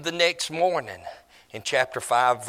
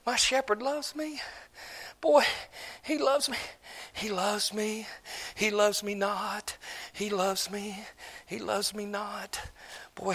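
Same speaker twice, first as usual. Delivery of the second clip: lovestruck bride; 2 semitones higher than usual. Acted. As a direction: murmur to herself while waiting. Preacher plays the waiting bride.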